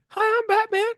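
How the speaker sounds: cartoon superhero voice; put-on vigilante, played as a cartoon; Batman. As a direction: do the caped hero like a cartoon. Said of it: "Mine is like".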